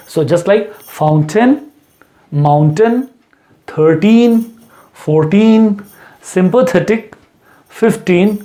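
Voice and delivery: fountain, mountain, thirteen, fifteen with a crisp T after N; clear T after N. Shown as a demonstration. Teacher models a forceful T after N. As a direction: land the T firmly after the N. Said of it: "मुंह में टी की आवाज़ आनी चाहिए".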